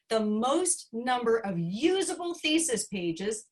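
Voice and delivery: "usable" picked out as the key word; stress on usable. Real, not acted. Award presenter teasing a student's page record, stress on usable. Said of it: "emphasis on usable".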